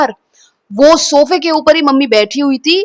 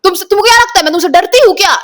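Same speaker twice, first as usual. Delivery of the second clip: fast, higher, sharp retort thrown back; defiant quarrel; 6 semitones higher, 3 dB louder, much faster than usual. Retold or imitated. Daughter fighting with her mother, fast defiant retort. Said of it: "ऐसे करके मैं mummy के साथ झगड़ा".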